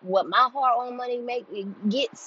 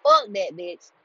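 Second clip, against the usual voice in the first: retold losing it; 3 semitones higher than usual. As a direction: blow up as you retell it. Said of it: "I lost it".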